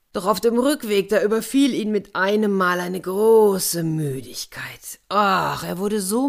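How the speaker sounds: breathy storyteller whisper for sudden tiredness; whispered narration. A narrator's reading. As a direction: whisper it, heavy with sleep. Erzählerin flüstert die Müdigkeit. (geflüsterte Erzählung)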